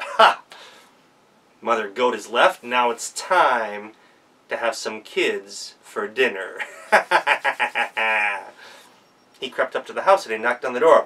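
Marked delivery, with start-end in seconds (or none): 0.0-6.6 lightly voiced gloating wolf, slowing down; a hint of a scheming wolf; sly wolf. 6.9-8.4 low villain laugh; gloating evil chuckle; evil wolf chuckle. Acted.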